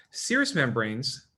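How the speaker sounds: serous membranes drawn out slowly; slow and deliberate. Shown as a demonstration. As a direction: stretch out serous membranes for note-taking.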